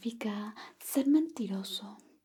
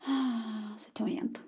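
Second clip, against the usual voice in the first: faster whisper; 3 dB quieter than usual. Shown as a demonstration. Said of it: "Pero más rápido, por supuesto".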